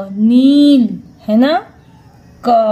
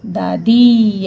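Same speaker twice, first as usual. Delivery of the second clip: slow reading demo; 4 semitones lower, 3 dB louder, much slower than usual. Shown as a demonstration. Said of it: "पापा की मम्मी को क्या बोलते हो?".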